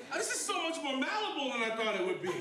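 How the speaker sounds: high, loud amazed gush. Retold or imitated. In the tub with girlfriend, amazed gush. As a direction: blurt it out in wonder.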